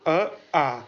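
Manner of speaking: अ clipped short, आ held long; short then long vowel demo. Shown as a demonstration. Teacher contrasting short and long vowels for students. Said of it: "आप ही बोल के देखिए".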